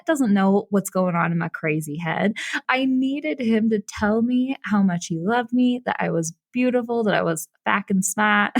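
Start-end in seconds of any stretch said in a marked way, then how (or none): 5.9-8.5 put-on a botched British accent that drifts toward Boston; failed British accent. Imitating her boyfriend's compliments in a wobbly British-Boston accent. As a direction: attempt a British accent, land somewhere near Boston. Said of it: "That's totally not a British accent. That sounds more like Boston".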